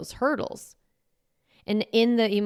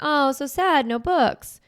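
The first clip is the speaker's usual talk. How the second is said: genuinely sad; 8 semitones higher, 4 dB louder than usual. Retold or imitated. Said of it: "You're, like, genuinely sad".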